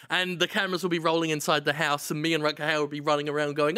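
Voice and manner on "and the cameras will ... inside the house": normal talking voice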